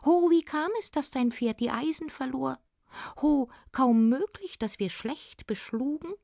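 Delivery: high-pitched dwarf, long opening "Ho"; little smith. Acted. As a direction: call it out in a high little goblin voice. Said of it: "sagte der kleine Schmied".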